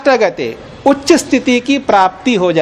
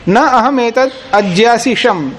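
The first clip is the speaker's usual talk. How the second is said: slow Sanskrit recitation; 2 semitones higher than usual. Shown as a demonstration. Sanskrit quote recited slowly.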